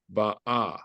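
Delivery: "ba'a" with the accent on the final syllable, ba-A; stress on last syllable. Shown as a demonstration. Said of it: "if the accent fell on the bottom".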